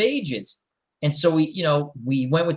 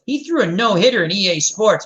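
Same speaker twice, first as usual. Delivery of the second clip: put-on eager kid boasting, a bit louder; 5 semitones higher, 4 dB louder than usual. Kid's friend vouching for him to the coach, eager boast. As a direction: boast it like a proud teammate. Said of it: "his friend goes".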